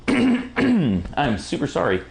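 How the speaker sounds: slow, hoarse apology; hoarse, clearing throat first. Real, not acted. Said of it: "as I'm losing my voice".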